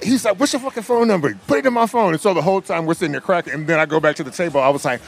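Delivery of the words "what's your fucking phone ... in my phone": high-pitched, animated quote; playfully imitating a friend's insistence; mock demand. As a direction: push it up high like an eager demand. Quoting star demanding his number.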